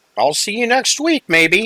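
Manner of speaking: put-on sweet, friendly little old woman voice, very high. Voicing a friendly little old lady introducing herself: friendly little old lady voice. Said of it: "withdraws her hand and says".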